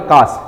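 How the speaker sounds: "काश" ending on a complete श; long आ, then the whole श in "काश"; full-letter pronunciation. Shown as a demonstration. Teacher contrasting it with the half letter, full-letter pronunciation. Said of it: "ये पूरे सौ का उच्चारण है".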